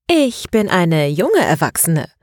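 slow, drawn-out with a grin; grinning interjection. A narrator's reading. Ilkay cheekily objects to being called a child, grinning. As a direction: toss it in with a grin. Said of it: "warf Ilkay grinsend ein".

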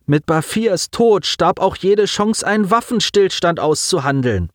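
put-on high, strained voice of a grieving boy; a young man fighting back tears; lightly voiced teen on the edge of crying; grieving boy Simon. A narrator's reading.

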